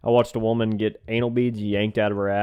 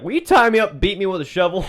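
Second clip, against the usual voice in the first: 1 mock eager woman; 6 semitones higher, 3 dB louder than usual. Voices kinky woman.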